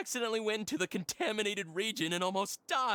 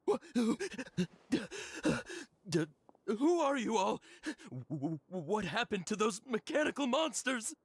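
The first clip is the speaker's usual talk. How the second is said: trembling, stuttering questions; stammering fear. Acted. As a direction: stumble over each word in fright. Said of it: "inarticulate speech and bodily tremors".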